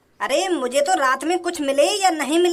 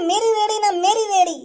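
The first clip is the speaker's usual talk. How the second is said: mock sobbing; 3 semitones higher than usual. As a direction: fake whimpering imitation with a laugh. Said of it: "अब रो रहे आंसू ने बहा रहा".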